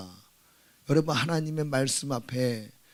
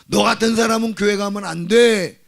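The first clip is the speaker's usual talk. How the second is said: high, loud mock scolding; imitating an indignant gatekeeper; acted rejection; 7 semitones higher, 11 dB louder than usual. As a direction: shut them out with a raised voice.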